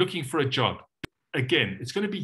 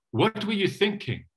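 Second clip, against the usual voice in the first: gentle question; 5 semitones higher than usual. Shown as a demonstration. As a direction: ask it kindly, no blame. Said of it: "A gentle question".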